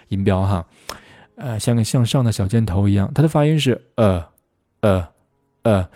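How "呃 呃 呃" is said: "呃" as a short uh pushed from the belly; abrupt, supported "呃" sound; short uh vowel. Shown as a demonstration. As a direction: punch out each "呃" separately. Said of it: "需要你的丹田发力".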